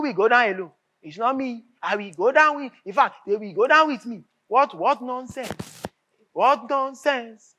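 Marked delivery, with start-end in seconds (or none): 4.5-7.6 slow indignation. Acted. Indignant senator.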